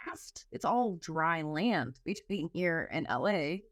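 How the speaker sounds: slow, low flat reality check; deadpan realization. Retold or imitated. Nervous flyer realizing the raft is useless, slow and low deadpan. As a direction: drag it out dryly. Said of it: "And I'm like".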